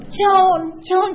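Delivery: high, loud calling out a name; excited greeting. Retold or imitated. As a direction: call her name across the room, thrilled to see her. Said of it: "she was so excited to see me".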